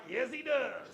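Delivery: laughing, loud and bright answer; half-laughing playful reply to a doubter; laughing yes. Acted. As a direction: laugh it out, cheerfully insisting. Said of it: "I'm like".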